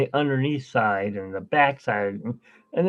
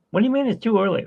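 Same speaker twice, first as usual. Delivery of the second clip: much higher, indignant comeback; incredulous objection; 8 semitones higher, much faster than usual. Acted. Answering Uber who say it's too early, higher incredulous tone. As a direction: throw it back in disbelief, pitched up.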